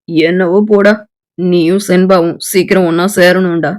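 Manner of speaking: low, quick, offhand friend; Chandru's voice. Acted. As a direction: toss it back like a puzzled buddy.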